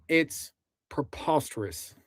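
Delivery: hammed-up Southern US drawl; Southern twang. Shown as a demonstration. Streamer jokes about underrated accents, in mock Southern twang. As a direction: stretch the words into a folksy Southern twang. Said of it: "love myself a good old Southern twang".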